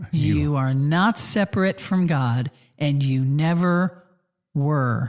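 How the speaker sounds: slowed down, pitched way down. Asked by the other speaker to say it again, repeating the words slower. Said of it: "Say that again slower".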